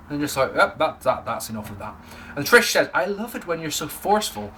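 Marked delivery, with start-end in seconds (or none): 0.5-1.9 low, muted put-on voice of authority; put-on Vince voice. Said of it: "I don't know why I did that voice". 2.9-4.5 lightly imitated flirt; mock admiring character voice; put-on Trish voice. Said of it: "I don't know why I did that voice".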